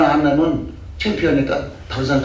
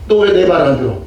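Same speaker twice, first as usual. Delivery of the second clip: mock angry scolding; 5 dB louder than usual. Retells scolding church members.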